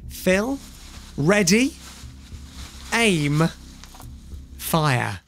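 slow, drawn-out countdown with long pauses; suspenseful game-show countdown; firing countdown. Real, not acted.

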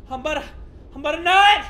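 high, loud mock climax; exaggerated, effortful outcry; hammed-up straining yell. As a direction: shout it as if at bursting point.

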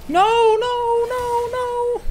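high, loud panicked no's; yelling in alarm; panicked shout. Real, not acted. Panicking as the game goes wrong.

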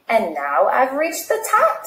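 proud and pleased. Acted. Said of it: "said Snail proudly".

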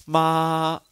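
妈 held level and high; first tone. Shown as a demonstration. Teacher demonstrating Mandarin first tone, level and high. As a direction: sing 妈 flat at the top of the range. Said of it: "妈是平的".

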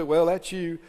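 low, subdued, accusing tempter; devil's discouraging voice. Acted. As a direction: talk someone into giving up, pitched low. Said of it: "He'll try to jump on people and say".

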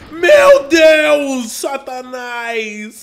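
startled high scream of alarm; panicked shout. Real, not acted. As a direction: yell in panic as the boss appears. Boss appears suddenly.

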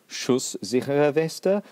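Schusssichere Weste said slowly and carefully, the hissing S's drawn out; German pronunciation. Shown as a demonstration. Lecturer showing off a German word, slow careful pronunciation. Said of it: "You've got to love those three S's".

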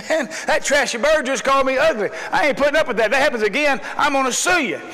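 indignant threat, lightly hammed up; irate. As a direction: act out an angry complaint. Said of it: "the man gets irate".

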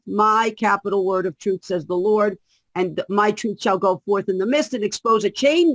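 measured, solemn prophetic reading; prophecy reading. Acted. Guest reads the prophecy to the host, solemn. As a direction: declare it as the Lord's own word.

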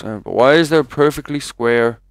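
normal talking voice

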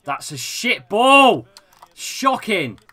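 loud, drawn-out exasperation; annoyed outburst. Real, not acted. Gamer berating a bad ball, exasperated.

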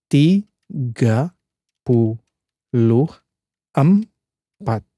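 "tiga puluh tiga" split by syllables, slow; sounding out words. Shown as a demonstration. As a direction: say "tiga puluh tiga" word by word with pauses. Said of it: "if I break down into syllables".

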